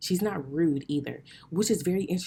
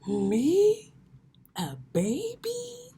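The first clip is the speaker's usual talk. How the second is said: put-on much higher, loud, slow squeal on "baby"; mock outraged disbelief; 6 dB louder, much slower than usual. Friend calls her a baby, hammed-up shocked squeal. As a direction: play it up, scandalised. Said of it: "And I was like".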